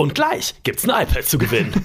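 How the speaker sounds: swooping radio announcer voice. In a comedy bit, speaker slips into a radio host voice.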